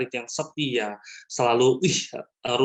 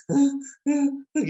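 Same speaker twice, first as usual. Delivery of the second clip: imitated laboured breaths; 12 semitones higher than usual. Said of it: "Padahal saya nahan itu, saya duduk gini".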